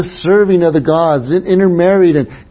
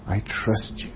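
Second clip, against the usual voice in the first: breathy whisper of trust, much softer; 5 semitones lower, 12 dB quieter than usual. Shown as a demonstration. Preacher whispers trust to a close friend, hushed. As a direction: whisper it as a confidence.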